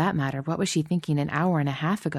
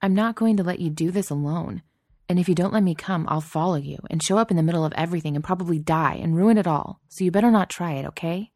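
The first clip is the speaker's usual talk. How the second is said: heated; 2 semitones higher, 3 dB louder than usual. Acted. Heated insistence.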